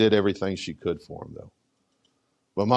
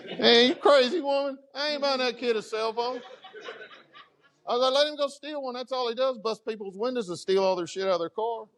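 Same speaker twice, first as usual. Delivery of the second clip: high, laughing protest, much higher than his usual voice; 13 semitones higher than usual. Retold or imitated. Husband laughingly refusing his wife's cell phone request. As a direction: laugh it off and refuse her outright, pitched way up. Joking argument with his wife.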